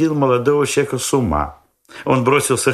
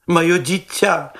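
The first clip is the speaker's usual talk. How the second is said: cry out; 9 semitones higher, much slower than usual. A narrator's reading. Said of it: "закричал молодой человек".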